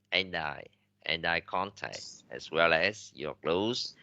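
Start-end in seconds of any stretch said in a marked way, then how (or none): 0.1-2.0 "and eye" joined with no gap, softly repeated; linked pronunciation. Shown as a demonstration. Teacher repeating the example for students, linked pronunciation. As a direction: run the d of "and" into "eye". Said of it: "người ta đọc nối rất là nhiều".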